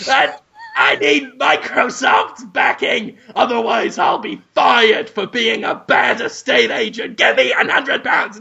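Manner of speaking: shouted whiny begging; desperate pleading. Acted. Agent shouts at the buyer, begging for a hundred pounds.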